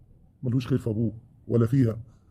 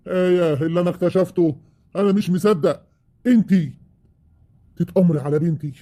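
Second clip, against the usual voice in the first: outraged disbelief; 4 semitones higher than usual. Acted. Father discovering the plot.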